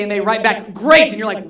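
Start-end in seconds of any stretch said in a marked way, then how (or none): 0.7-1.1 loud, high, shouted reply; all-caps shout. Retold or imitated. Friend texts back in all caps, shouting. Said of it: "stop shouting at me".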